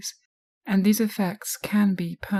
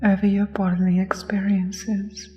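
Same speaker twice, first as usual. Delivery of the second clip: hypnosis voice; 4 dB louder than usual. Acted. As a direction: lull the listener into trance. Hypnosis guided relaxation.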